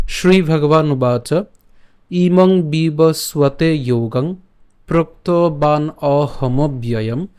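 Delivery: measured, drawn-out chanting of the shloka; slow Sanskrit verse recitation. Acted. Teacher recites the verse to students, slow and measured. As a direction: recite each line slowly and evenly.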